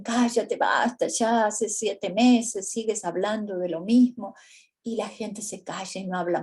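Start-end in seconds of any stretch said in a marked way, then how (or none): 0.0-4.3 louder, a touch of exasperated scolding; imitating children fed up with their mother's grief; impatient scolding. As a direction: tell her to stop, mildly annoyed. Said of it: "los hijos le dicen".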